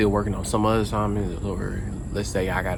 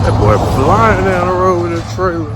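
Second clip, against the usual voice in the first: startled exclaim; 9 semitones higher, 9 dB louder than usual. Real, not acted. Car speeds past him.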